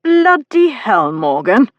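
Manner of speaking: high, loud, drawn-out angry outburst; thundering. A narrator's reading. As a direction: explode at a brother, stretching the oath. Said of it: "Griff thundered".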